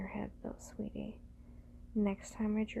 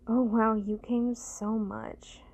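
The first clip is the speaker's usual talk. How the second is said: surprised; 8 dB louder, slower than usual. Acted. Surprised praise, loud and slow.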